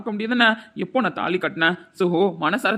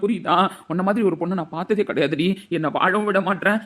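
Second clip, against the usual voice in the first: usual speaking voice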